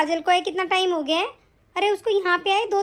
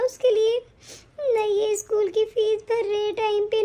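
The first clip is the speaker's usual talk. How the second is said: 1 crying. Acted. Wife complains of neglect, crying.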